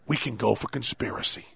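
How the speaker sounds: half-hearted courtroom gravity; Jack McCoy impression. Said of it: "That's my Jack McCoy impersonation".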